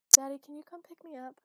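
high, loud plea; upset daughter. A narrator's reading. Daughter asks her father for a ride, upset pleading. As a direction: plead with Dad to come, upset.

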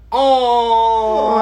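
loud, high, drawn-out "ohhh"; high sustained sentimental "oh"; touched "aww". Real, not acted. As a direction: coo long and loud as if moved. Touched at being told first.

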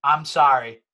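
slow, drawn-out non-apology; mock apology. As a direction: apologize slowly without meaning a word. Mock apology after being pressed.

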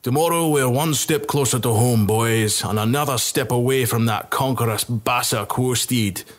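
a mild mock yell from a rough soldier; rowdy soldier rallying the boys; gruff yell. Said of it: "another yelled in a deep, gruff voice".

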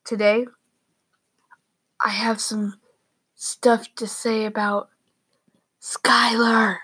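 hushed secret whisper. Real, not acted. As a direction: whisper so the sister can't hear. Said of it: "I don't know why I'm whispering".

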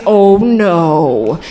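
mock shocked child, eyes wide, hands on face; Macaulay Culkin "oh no". Comedian imitates Home Alone panic, lightly voiced horrified kid. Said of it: "doing an impression of Macaulay Culkin in Home Alone".

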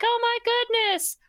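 high hammed-up grief, slowing on my husband; fake distraught wife. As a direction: ham up a wife faking shock to the police. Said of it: "calls the police and is like".

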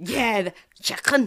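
drawn-out rasped Scouse "chicken"; Scouse accent. Shown as a demonstration. Echoing the angry Scouser impression, Scouse accent. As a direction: imitate a Scouser's throaty k. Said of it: "an angry Scouser".

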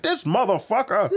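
high-pitched retold grumble, half laughing; imitated fed-up roommate; mock exasperation. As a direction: curse him in comic disgust. Roommate fed up with drunk friend.

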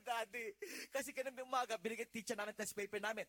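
put-on high, loud wailing kid; mock sobbing child explaining; crying child. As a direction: whine it out like a sobbing schoolboy.

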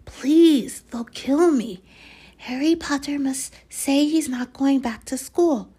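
high, loud frightened begging; desperate pleading. Acted. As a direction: beg as if your life depends on it. Harry begging the elf.

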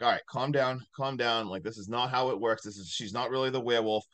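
mildly acted calming voice; talking someone down. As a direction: imitate talking a friend down, pitched low. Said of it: "trying to talk him down".

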